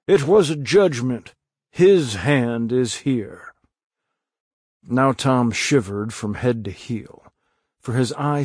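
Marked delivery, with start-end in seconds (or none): 0.1-3.6 solemn minister. Acted. Minister pronounces over the body.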